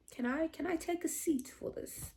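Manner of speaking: soft, high, faltering question; stunned request. Retold or imitated. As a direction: imitate someone meekly asking to sit down. Imitating his stunned request to sit.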